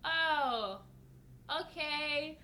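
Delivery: imitating baffled staff, drawn out; confused. Staff reacting to her confession, confused. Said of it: "they were so confused".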